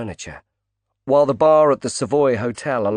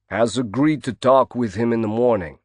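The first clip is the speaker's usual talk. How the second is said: growled. Acted. Bodyguard warns Knight off his boss, a light growl. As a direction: warn him off with a light growl. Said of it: "Mascolo growled".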